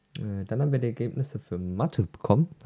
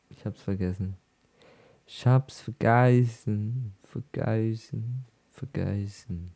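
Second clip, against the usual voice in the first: slow, fading repetition; trailing off; slower than usual. Acted. Repeats, fading away.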